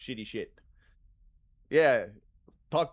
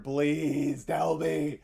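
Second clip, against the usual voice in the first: mock pleading buyer; 4 semitones higher, 7 dB louder than usual.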